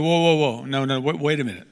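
incredulous objection that climbs to a near shout; protesting Moses. Acted. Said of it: "I'm sure Moses was like".

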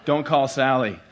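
slowed, chuckling advice; laughing punchline. Real, not acted. Half-laughing, slow. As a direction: pastor warning congregation, laughing.

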